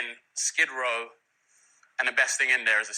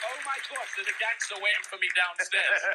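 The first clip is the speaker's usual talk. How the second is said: laughing; 6 semitones higher than usual. Retold or imitated. Retelling scare, laughing.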